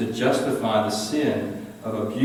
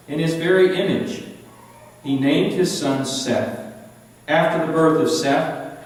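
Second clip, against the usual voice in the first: steady, measured Bible reading; solemn read-aloud of Genesis; scripture reading; 2 semitones higher than usual. Acted. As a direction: read the verses to the class with weight.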